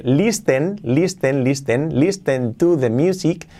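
LISTEN with the t sounded, "lees-ten"; spelling pronunciation. Shown as a demonstration. Teacher shows the written form of listen, spelling pronunciation. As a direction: read "listen" as written, hard t. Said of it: "bueno, se escribe".

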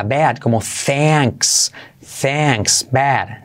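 "bad" with the long open vowel of "thanks". Shown as a demonstration. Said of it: "Y esa E".

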